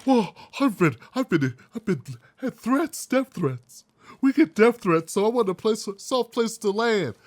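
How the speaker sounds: hammed-up stammering excuse from the organization; mocking excuse. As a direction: parody their flustered excuses, stumbling. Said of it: "the bullshit responses were like".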